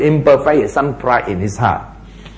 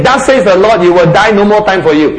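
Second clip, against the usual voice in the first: raised, higher declaiming voice; firm divine verdict; 5 semitones higher, 4 dB louder, faster than usual. Acted. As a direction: hand down the sentence emphatically, without a break. Acts out the Lord's stern verdict.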